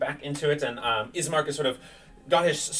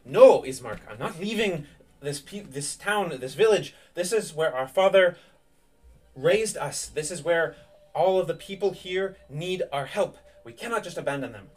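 lightly acted heroine, pitch somewhat raised; Irina, earnest defiance; 5 semitones higher than usual. Irina refusing to abandon the village to Ismark, earnest and firm.

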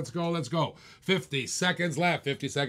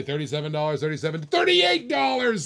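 mock bidder shout. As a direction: shout the raise like an eager bidder. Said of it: "says Paul".

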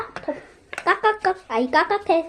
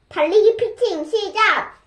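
slow high drill command; commanding shout; 5 semitones higher than usual. Acted. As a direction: call out like a drill coach. Commanding start.

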